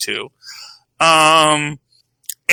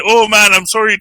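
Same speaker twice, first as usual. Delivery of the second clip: loud mock Canadian apology; 4 semitones higher, 4 dB louder than usual.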